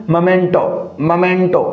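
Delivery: momento said as मोमेंटो with a short schwa first syllable, məmento; correct pronunciation. Shown as a demonstration. Teacher models the correct pronunciation for students. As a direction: stress the middle, मोमेंटो as mə-MEN-to. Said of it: "इसका जो correct pronunciation है वो मोमेंटो नहीं होता".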